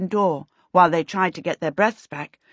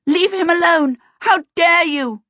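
high, indignant shout; 9 semitones higher, 4 dB louder than usual. A narrator's reading. Rescuer racing upstairs after the Lubberkins, shouting. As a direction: shout it in outrage, pitch raised.

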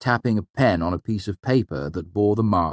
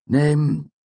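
irritated; 10 semitones higher, 6 dB louder than usual. A narrator's reading. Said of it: "a vastly irritated sigh".

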